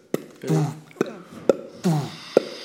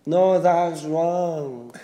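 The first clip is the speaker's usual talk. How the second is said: slow repeat; 2 semitones higher, much slower than usual. Retold or imitated. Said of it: "try imitating you".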